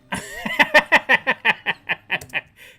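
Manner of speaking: loud, high, rapid staccato laugh; long machine-gun burst of laughter. Acted. Mocking burst after HQ's line.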